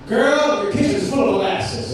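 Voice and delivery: mock Southern singer. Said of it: "it would just be like".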